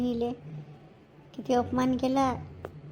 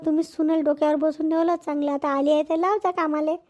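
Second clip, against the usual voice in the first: retold retort; 3 dB louder than usual. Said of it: "तर मी म्हटलं".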